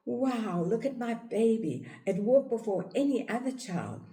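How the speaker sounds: high, bragging mom voice; proud mother. Retold or imitated. Mother boasting that her baby walked first, high and proud.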